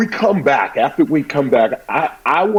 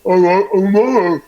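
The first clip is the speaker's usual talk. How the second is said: halting stammer; 4 semitones higher than usual. Shown as a demonstration. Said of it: "I was talking like this".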